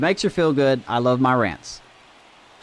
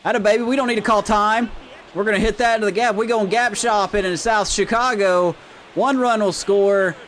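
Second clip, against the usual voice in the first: excited fan call; 6 semitones higher than usual. Real, not acted. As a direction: call it like the big hit is coming. Excited calling of a hit.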